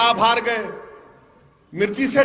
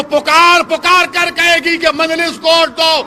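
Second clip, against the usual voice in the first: rousing rally shout; 4 semitones higher, 4 dB louder than usual. Acted. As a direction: drag out each word, higher and louder. Rally speech climax. (جلسے میں پرجوش نعرہ نما للکار)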